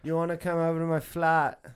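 hammed-up British accent, jokey; mock British. Mate jokingly playing a Brit to his golf buddies, mock British accent. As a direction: put on a cheeky London accent. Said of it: "We're literally British".

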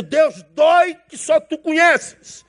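slow, high anguished shout to God; anguished cry. Retold or imitated. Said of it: "E ele tá dizendo". (Jó clamando a Deus, grito lento e agudo)

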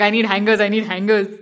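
loud, urgent calls for hangers; frantic calling out. Retold or imitated. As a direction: call out in a panic, searching everywhere. Running around looking for hangers.

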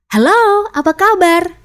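"Halo, apa kabar" called out high and loud; different emphasis, bright greeting. Shown as a demonstration. Coach demonstrating how emphasis changes meaning, high loud greeting. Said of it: "diucapkan dengan penekanan yang berbeda".

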